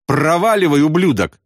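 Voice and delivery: high, tearful snap; sobbing curse. A narrator's reading. Wounded man sobs curses at friend. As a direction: sob it out angrily. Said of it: "всхлипнул Ясариан".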